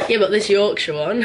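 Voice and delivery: words through a laugh; amused, laughing aside. Real, not acted. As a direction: chuckle while saying it. Laughing about her own accent.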